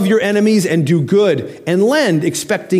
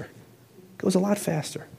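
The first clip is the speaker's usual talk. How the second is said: much softer, slow echo; 2 semitones higher, 11 dB quieter, slower than usual. Shown as a demonstration. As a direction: let it sink in, slowly. Repeated line, softer take.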